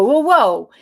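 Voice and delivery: loud urgent stop-stop-stop; alarmed warning. Retold or imitated. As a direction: rein someone in loudly.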